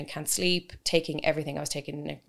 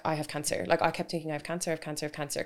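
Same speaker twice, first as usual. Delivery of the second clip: retold worried thought; 2 semitones lower, 5 dB quieter, faster than usual. Patient replaying her fear of cancer, softly. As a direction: say it like a thought looping in your head.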